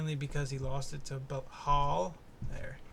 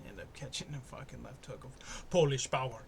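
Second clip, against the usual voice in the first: Jan impression; 2 semitones lower than usual. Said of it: "my best Jan impression".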